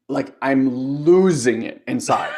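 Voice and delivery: slow, laughing through the words. Real, not acted. Telling a friend about her silent rage, laughing. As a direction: laugh at yourself while admitting it.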